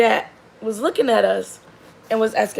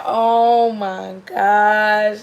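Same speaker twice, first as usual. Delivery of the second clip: exasperated oh my gosh; 5 dB louder, much slower than usual. Retold or imitated. Reacting to daughter's answer.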